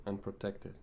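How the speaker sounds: calm invocation with long pauses between phrases; guided meditation. Acted. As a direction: lead them gently into the meditation, phrase by phrase.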